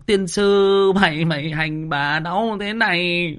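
loud, slow, high furious cursing of the husband; woman in labour screaming abuse at her husband; cursing in labour pains. Retold or imitated. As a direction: spit the curse at him through the pain.

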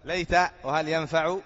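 slow recital of the half-line; reciting poetry. Shown as a demonstration. Teacher prompting the verse slowly to students. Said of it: "من اللي قام ابتداء".

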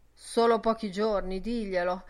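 mildly anxious plea; understated nervous urging. Acted. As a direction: press him with a touch of worry. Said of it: "fece ansiosamente padre Cowley".

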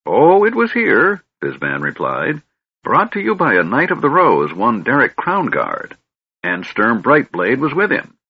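put-on high, sharp old man asking; cunning mage pressing the knight; shrewd old wizard. Fizban explains.

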